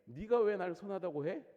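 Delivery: Jesus answering the kneeling man, prickly; prickly retort. Retold or imitated. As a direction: push back at the flattery. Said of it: "까칠하게 지금 물어보고 있습니다".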